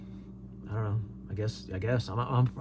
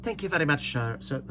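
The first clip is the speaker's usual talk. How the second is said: put-on light Irish accent; trying the Irish again. Thanking the Irish commenter in a light Irish accent. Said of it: "Is that my Irish accent?".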